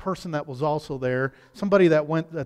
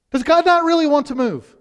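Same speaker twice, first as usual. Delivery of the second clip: higher and louder, leaning on "not"; emphatic repeat; 8 semitones higher, 8 dB louder than usual. Shown as a demonstration. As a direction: hit "not" hard on the repeat. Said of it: "repeated question".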